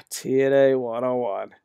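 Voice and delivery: resigned sigh. Real, not acted. Repeats it with a sigh.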